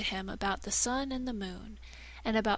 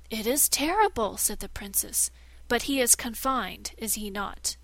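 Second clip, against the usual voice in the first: alarmed princess; 3 dB louder than usual. Acted.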